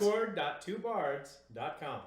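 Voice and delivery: slow, deliberate correction; slow and careful. Shown as a demonstration. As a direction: spell it out slowly.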